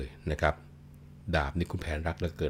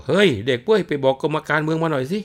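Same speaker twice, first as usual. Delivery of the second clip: calling out; 10 semitones higher, 8 dB louder than usual. Acted. Calling servants for help.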